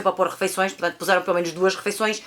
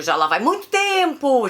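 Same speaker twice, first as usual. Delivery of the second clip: MUITO TEMPO stretched out and high; stress on MUITO TEMPO; 7 semitones higher, 4 dB louder, slower than usual. Real, not acted. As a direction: lift and drag out MUITO TEMPO for emphasis. Stressing how long ago it was.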